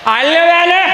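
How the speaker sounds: high, hollered household question; hammed-up impatient husband's call. Husband asking wife how many rotlis remain, impatient.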